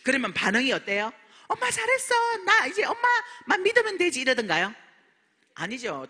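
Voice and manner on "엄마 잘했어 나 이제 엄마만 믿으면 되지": mock cheering. Imagined family cheering her on.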